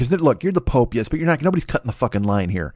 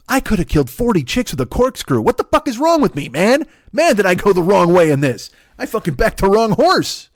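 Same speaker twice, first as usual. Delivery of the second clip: high, loud mock outrage; furious Pope; 7 semitones higher, 3 dB louder than usual. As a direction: rant in high-pitched exasperation, building louder. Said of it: "the Pope's furious 'cause he's like".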